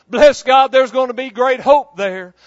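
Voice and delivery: loud exultant bless God; preacher rousing the congregation, loud; preaching shout. Real, not acted. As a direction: shout it with joy to the church.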